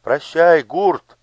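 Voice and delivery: high, loud farewell cry; called out. A narrator's reading. Someone in the crowd calls farewell to Gurt. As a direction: call after him across the crowd. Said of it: "крикнул кто-то".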